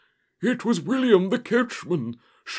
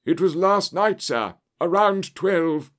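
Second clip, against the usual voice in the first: high, louder servant voice; agitated butler; 7 semitones higher, 5 dB louder than usual. A narrator's reading. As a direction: report it urgently, pitched right up. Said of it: "he gasped".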